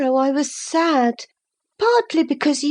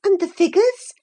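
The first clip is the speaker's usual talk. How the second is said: higher eager prompt; higher, encouraging cry; 6 semitones higher than usual. Acted. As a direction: coax him on, encouraging. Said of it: "I cried encouragingly".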